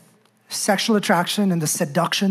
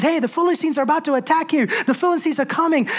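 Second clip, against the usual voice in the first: higher, fast mock alarm; urgent warning cry; 6 semitones higher, faster than usual. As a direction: blurt the warning in a rush. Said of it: "she cries out and says".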